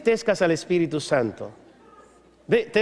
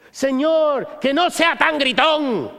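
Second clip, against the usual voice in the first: whiny plea; 6 semitones higher, much slower than usual. Acted. Believer begging not to be a shouter, whining. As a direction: whine it to heaven. Pleading prayer vs scripture reply.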